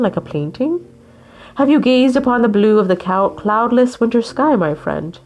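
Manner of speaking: wise walrus. Acted. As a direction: speak like a gentle sage. Walrus speaks grandly.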